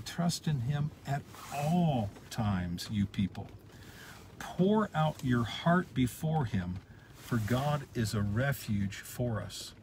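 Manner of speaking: slow verse, "all" leaned on, "times" stretched; slow, earnest restatement. Shown as a demonstration. Preacher re-reads the verse to the congregation, slow and earnest. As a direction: dwell slowly on "Trust in him at all times". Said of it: "He's saying".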